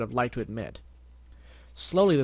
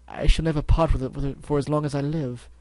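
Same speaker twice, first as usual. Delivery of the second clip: dramatic Rarity voice; 2 semitones higher, 5 dB louder than usual. Acted.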